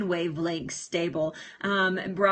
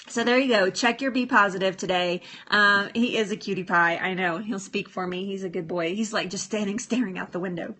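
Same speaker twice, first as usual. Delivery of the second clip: usual speaking voice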